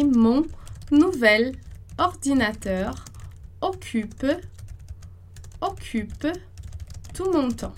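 slowly, each word apart with long pauses; slow dictation. Shown as a demonstration. Teacher slowly dictating the new sentence, pausing between words. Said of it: "slow dictation of the sentence".

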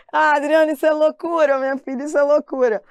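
loud, high mock outrage at the teacher; mock outraged student. Student protesting to the teacher, loud and high. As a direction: protest like a scandalised student who thinks it's crazy. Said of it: "Aí você vai falar assim".

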